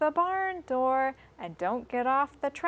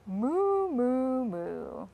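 put-on a playful cow moo for kids; much slower than usual. Showing children the cow, a playful moo. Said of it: "cow in the barn saying".

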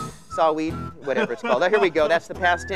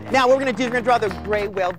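put-on fast excited kids host; extreme hyped kids ad; much faster than usual. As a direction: rattle it off like a TV host.

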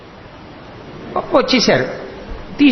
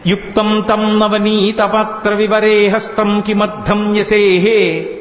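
verse recitation; much slower than usual. Acted.

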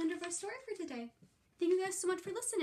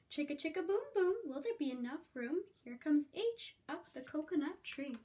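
lively sing-song read-aloud; reading to children; slower than usual. Acted. Teacher reading Chicka Chicka Boom Boom to the class. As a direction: bounce the rhyme for little listeners. Reads picture book to children.

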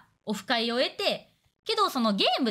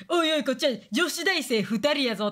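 put-on teasing college girl; 3 semitones higher than usual. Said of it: "とか言って、まあ、嘘なんやけど".

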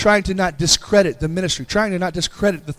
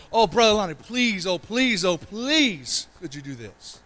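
higher, pleading please please; begging plea; 3 semitones higher, 3 dB quieter than usual. Shown as a demonstration. Pastor acts out begging a church elder, pleading. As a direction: beg Brother Lonnie like a needy child. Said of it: "it's a begging".

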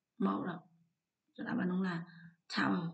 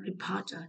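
"reporter" with POR strongest; stress on second syllable. Shown as a demonstration. Teacher going through stress answers, "reporter" stressed on POR. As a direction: lean on the middle syllable of "reporter". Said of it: "trọng âm hai".

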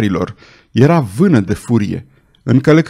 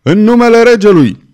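much higher, very loud, strained shout; louder second shout; 9 semitones higher, 6 dB louder than usual. A narrator's reading. Officer shouting once more at the closed window, full bellow. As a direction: bellow it as the last warning before the ram. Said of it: "ofițerul mai striga odată".

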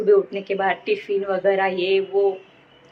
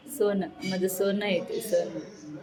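softer, tender doting words; 6 dB quieter, slower than usual. Real, not acted. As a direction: murmur fondly over her. Doting on cat. (लाडाने हळू बोलणे)

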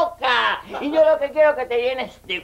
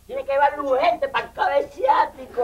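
mock outraged cry. Mock outrage at hospital choice.

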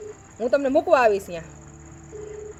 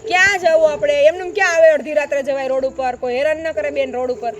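louder, stern warning; firm scolding; 4 dB louder than usual. Real, not acted. Helper sternly warning a crying woman, louder scold. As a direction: talk her out of crying with force.

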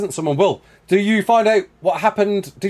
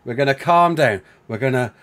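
calming down; 6 semitones lower than usual. Real, not acted. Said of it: "taking five seconds to breathe".

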